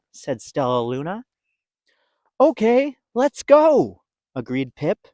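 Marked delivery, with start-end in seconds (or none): 2.4-4.0 much higher, louder chirpy yes; high little bird voice. Acted. Pip agreeing to go, high and chirpy. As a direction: squeak it out keenly.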